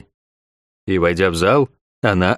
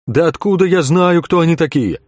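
higher, exasperated tavern keeper; irritated; 7 semitones higher than usual. A narrator's reading. Innkeeper answering a soldier, irritated and higher. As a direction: snap it back, fed up with questions. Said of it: "с раздражением".

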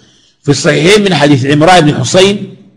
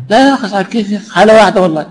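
mock denial; 4 semitones higher, much faster than usual. Mocking a grudge-holder's denial.

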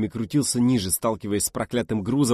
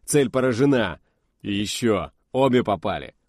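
excited report; 4 dB louder than usual. Acted. Kubasov reports the hits.

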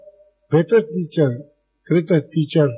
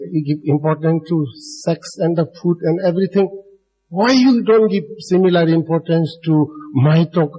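imitating a teacher's indignant reproach, only mildly heated; mock reproach, insistent on each question; Krishnamurti mildly scolding. Imitating a teacher who reproaches listeners for ignoring his talk, mildly angry. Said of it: "he becomes very angry".

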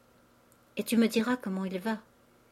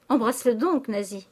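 urgent exclamation; 3 semitones higher, 5 dB louder than usual. Acted. Father urging his daughter to embrace the young man, exclaiming. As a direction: press her with a raised voice.

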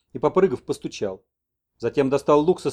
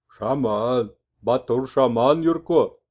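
slow, emphatic broken Russian; shaman messenger; 5 dB louder, much slower than usual. Acted. Messenger proudly names Yurko as chief shaman, slowly. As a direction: announce the title proudly.

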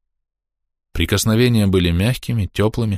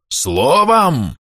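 loud, higher furious shout of the word; 7 semitones higher, 3 dB louder than usual. A narrator's reading. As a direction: bellow it back at her. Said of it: "закричал Степан".

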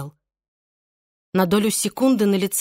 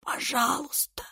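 faint, much softer plea; whispered; 6 semitones higher, 8 dB quieter than usual. A narrator's reading. Irene to Vincent, whispering please. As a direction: breathe it out weakly. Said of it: "прошептала Ирен".

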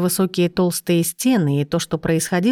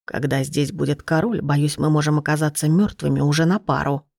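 low, dry, fearless irony; faint irony; 3 semitones lower than usual. Acted. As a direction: say it drily, a touch ironic. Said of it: "не прозвучало ни капли страха, и только призрачная ирония".

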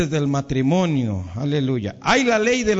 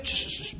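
spray can hiss; 5 dB quieter than usual. Retold or imitated. Imitating spraying a line.

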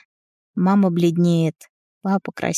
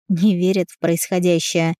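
plain reading voice

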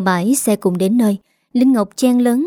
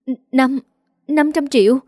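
shocked; 4 semitones higher than usual. Acted. Shocked at the sum demanded.

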